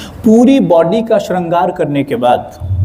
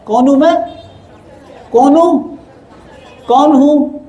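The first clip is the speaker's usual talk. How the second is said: raised call to the crowd; rousing question; 6 semitones higher than usual. Real, not acted. Preacher calls on the audience, raised rousing question. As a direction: pull an answer from the hall.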